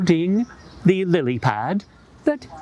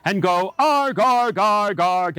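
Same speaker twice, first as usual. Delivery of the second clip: fox growl; 2 semitones higher than usual. Shown as a demonstration. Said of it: "Put your fox up and go arg".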